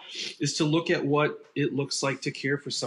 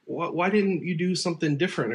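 questioning; 5 semitones higher than usual. Retold or imitated. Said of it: "just a lot of questions".

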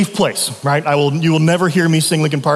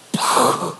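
imitated breathy laugh. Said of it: "he literally goes like this".

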